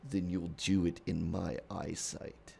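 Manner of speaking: measured, restrained stern father; lightly voiced guarded protector; Kratos. Man of Flames allows talk with Loki, restrained stern voice. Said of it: "he's just Kratos".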